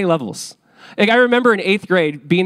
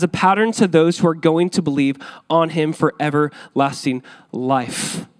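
measured, lifted Bible reading voice; scripture reading; 3 semitones higher than usual. Acted. Preacher reading scripture to the congregation, measured reading voice. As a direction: read the verses aloud with reverence. Reads scripture passage aloud.

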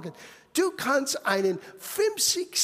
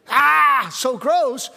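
intimidated gasp; 7 dB louder, much slower than usual. Retold or imitated. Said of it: "wird dich entweder einschüchtern".

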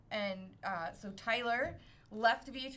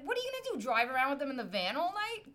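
higher-pitched sassy challenge; 3 semitones higher, faster than usual. Retold or imitated. To the police sergeant, a sassy mocking question. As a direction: get sassy because she's not getting her way. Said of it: "now I'm getting sassy".

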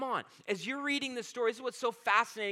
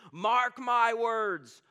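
slow, louder, drawn-out cry; mock scream; 3 semitones higher, 5 dB louder, much slower than usual. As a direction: drag out each word as a half-shouted warning. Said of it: "is kinda screaming this".

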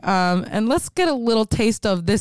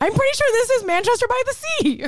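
laughing; 12 semitones higher than usual. Real, not acted.

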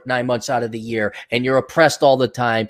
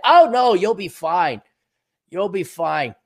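mock reassuring; 4 semitones higher, slower than usual.

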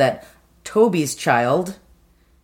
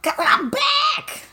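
high, slow hammed-up shout; mock shout; much slower than usual. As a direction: belt it out dramatically. Joking exclamation about the shack.

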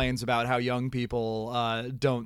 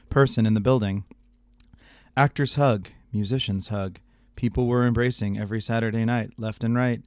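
Garrison Keillor; 2 semitones lower than usual. Acted. Host embellishing the broadcaster's email, Keillor impression. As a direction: spin it like a folksy monologue. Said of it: "do my appropriate, uh, Garrison Keillor voice".

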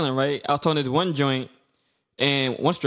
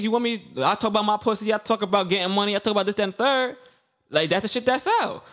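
higher, mock-bragging rant imitating a rapper; 5 semitones higher than usual. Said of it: "remember she said".

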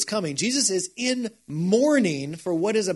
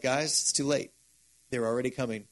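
hushed warning; 4 semitones lower, 6 dB quieter than usual. Retold or imitated. Jesus warning of arrest.

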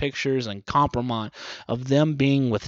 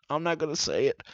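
mutter; 7 dB quieter, faster than usual. Real, not acted. Shopper muttering to himself, quietly. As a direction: say it under your breath.

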